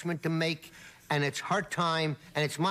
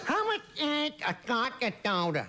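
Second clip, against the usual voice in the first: slurred, a touch higher bar order; speech-impaired guy; 4 semitones higher than usual. Retold or imitated. Bar patron asks the bartender the price, slurred mock voice. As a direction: order a drink in a mumbly impaired voice. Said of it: "he talk like this".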